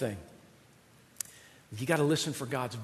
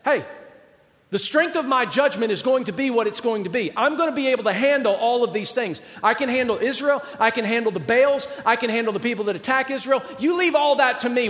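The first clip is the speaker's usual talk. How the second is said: bold declaration; 7 semitones higher, 5 dB louder than usual. Acted. Preacher voices God's assurance.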